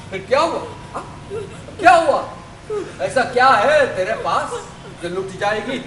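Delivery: taunting, laughing, high on the key word; mocking laugh. Villain mocking the trapped woman with laughter. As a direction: laugh at her while you mock.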